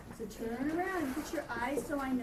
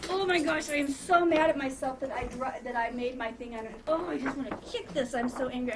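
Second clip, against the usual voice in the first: mock angry self-talk. Shown as a demonstration. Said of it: "you need to tell yourself".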